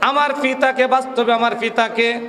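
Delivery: forceful, declamatory Bengali sermon delivery; waz preaching. Real, not acted. Preacher telling a gathering the story behind the verse, oratorical. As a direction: preach it to the crowd in long, ringing phrases.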